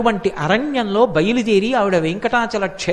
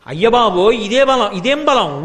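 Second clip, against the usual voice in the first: astonished; 4 dB louder than usual. Acted. Garuda stunned by Hanuma's breath.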